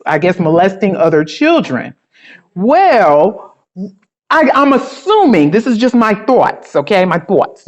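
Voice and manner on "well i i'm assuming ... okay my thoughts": light New York accent on "My thoughts". Shown as a demonstration. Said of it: "I had to bring in my New York accent".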